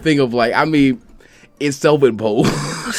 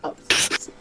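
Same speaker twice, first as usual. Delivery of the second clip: breathless whispered sorry; barely-voiced sorry after laughing; whispered apology; 9 dB quieter, faster than usual. Real, not acted.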